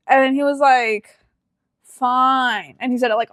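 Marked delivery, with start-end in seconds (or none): 1.8-2.8 mock-grudging sarcastic giving in. Imitating him agreeing to Dairy Queen, sarcastic. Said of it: "all, all sarcastically".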